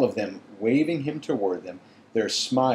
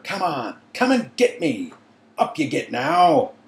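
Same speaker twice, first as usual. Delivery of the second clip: taunting call, louder at the end; 5 semitones higher, 6 dB louder than usual. A narrator's reading. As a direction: goad the dragon, rising up. Taunting the dragon.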